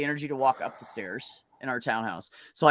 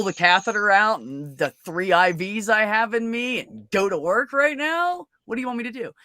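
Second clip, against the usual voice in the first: exasperated outburst; 3 semitones higher than usual. Retold or imitated. From the hospital bed, snapping at his girlfriend over bills, exasperated and rising.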